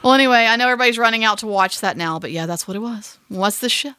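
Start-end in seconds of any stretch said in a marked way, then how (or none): 3.3-3.9 gentle whisper. Shown as a demonstration. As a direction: breathe the title out gently. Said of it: "gently whisper".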